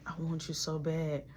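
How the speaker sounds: breathy whispered plea, barely voiced; hushed whispered want; seductive whisper. Her whispering mid-scene.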